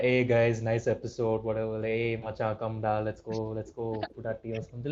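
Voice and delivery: exaggerated Indian English, put on for the podcast; lightly voiced mock Indian bro accent. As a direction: fake up a Tamil-English accent, friendly. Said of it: "you're gonna be like".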